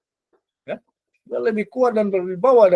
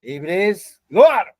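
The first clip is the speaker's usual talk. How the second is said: commanding shout; 4 dB louder, much slower than usual. Shown as a demonstration. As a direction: rebuke the devil, rising to a loud keluar. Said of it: "tinggal berkata".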